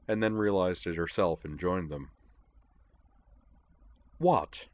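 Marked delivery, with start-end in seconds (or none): 4.2-4.7 sharp rise in pitch on a demand; a higher, insistent demand. A narrator's reading. Amanda wants to know why the others snicker, demanding. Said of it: "Amanda demanded".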